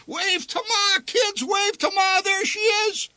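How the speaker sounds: very high, strained calling out; high excited hollering to the kids; frantic cheerful calling. Acted. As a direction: call out over the ride's roar. Father yelling mid-ride to family.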